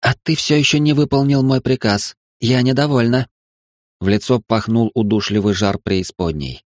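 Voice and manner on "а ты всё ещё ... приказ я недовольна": higher demoness voice, cold displeasure; displeased goddess. Acted. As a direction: scold him like a goddess. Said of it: "произнесла Астарта".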